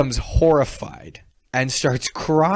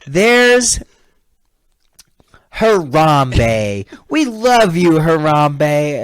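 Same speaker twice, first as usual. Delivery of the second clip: loud, drawn-out cheer, higher-pitched; excited fan shout; 5 semitones higher, 10 dB louder, much slower than usual. Retold or imitated. Fan walks up to greet the mascot, excited shouting. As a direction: whoop it like a fan spotting their hero.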